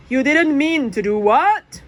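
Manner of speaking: loud sharp question; demanding. Acted. Dad demanding answers from Jack on phone, loud.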